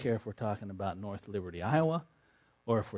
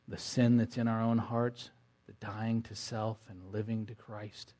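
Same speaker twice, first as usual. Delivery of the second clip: prayer. Acted. Closing prayer.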